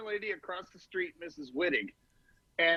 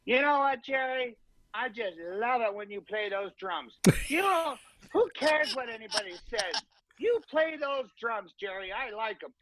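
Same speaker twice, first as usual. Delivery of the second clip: put-on sweet old lady; 3 semitones higher than usual. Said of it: "and she goes".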